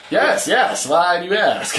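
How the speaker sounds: high, loud eager robot clone; too chipper, trying to pass as human; creepy clone voice. Pretend. Clone answers unnaturally.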